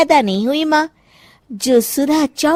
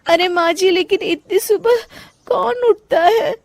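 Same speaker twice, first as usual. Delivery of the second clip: whiny protest; 5 semitones higher than usual. Acted. Bride protests early rise.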